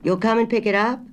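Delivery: high, loud country grocer straining to hear; a country shopkeeper on a bad line; rustic grocer. A narrator's reading. Grocer asking her to repeat, high and loud.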